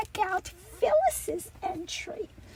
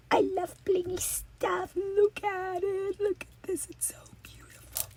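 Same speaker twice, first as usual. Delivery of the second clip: hushed; 7 dB quieter than usual. Real, not acted. Hushed admiration of a gold item.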